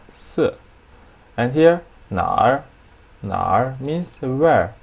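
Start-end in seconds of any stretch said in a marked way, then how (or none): 3.2-3.8 날 in a low, dipping third tone. Shown as a demonstration. Teacher shows students that 날 means where, dipping third tone. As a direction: let 날 sink low and curve back up. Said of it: "It's third tone".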